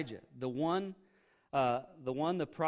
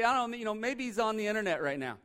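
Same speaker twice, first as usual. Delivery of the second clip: high, playful sarcastic jab; mocking taunt; 6 semitones higher than usual. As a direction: tease them, acting innocent. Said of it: "he made fun of them".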